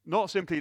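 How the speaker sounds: "Not" pitched high and loud, peak of the list; stress on not. Shown as a demonstration. Preacher building to a climax, loud stress on "Not". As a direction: crown the list by hammering "Not" in "Not simply".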